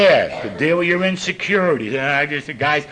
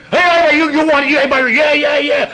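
eager calling out; 10 semitones higher, 5 dB louder than usual. Retold or imitated. Calling for volunteers in meeting.

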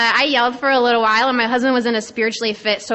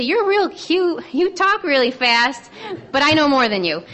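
condescending; 3 semitones higher than usual. Retold or imitated. Older man to a young woman on the panel, condescending. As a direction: imitate someone talking down to a youngster. Older men patronizing her, retold.

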